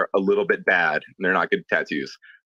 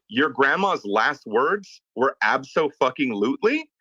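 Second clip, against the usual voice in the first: incredulous disbelief; 5 semitones higher, slower than usual. Retold or imitated. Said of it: "And I said".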